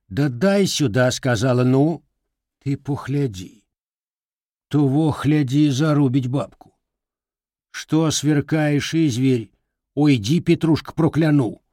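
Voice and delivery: scolding granny. Acted. Grandmother scolding.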